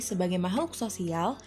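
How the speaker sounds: usual speaking voice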